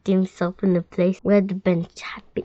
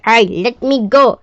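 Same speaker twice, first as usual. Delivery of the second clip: yelled; 2 semitones higher, 8 dB louder than usual. A narrator's reading. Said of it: "yelled the crocodile".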